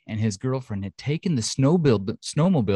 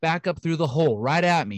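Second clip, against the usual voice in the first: mildly hammed-up, higher-pitched witness quote; lightly acted startled brother, pitched up; animated witness; 6 semitones higher than usual. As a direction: relive the shock in a raised voice.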